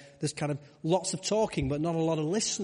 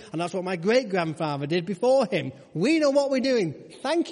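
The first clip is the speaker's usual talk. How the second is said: indignant fisherman; 4 semitones higher than usual. Pretend. Preacher voicing a proud fisherman refusing a stranger, indignant. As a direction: bristle like a proud fisherman told his job.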